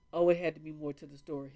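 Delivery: quick, offhand quote of the doctor; quoted doctor, fast. Retold or imitated. Vlogger quoting the doctor's dismissal, quick and offhand. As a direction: rattle off his brush-off lightly. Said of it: "he was like".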